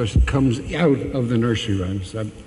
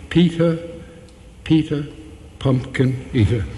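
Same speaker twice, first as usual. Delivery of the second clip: PETER, PETER, PUMPKIN EATER with each first syllable hit; trochaic beat; 2 semitones higher than usual. Shown as a demonstration. Professor demonstrating the beat of poetry, "Peter, Peter, pumpkin eater" stressed on first syllables. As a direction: chant "Peter, Peter, pumpkin eater" in separated strong-weak beats. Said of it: "which is trochaic".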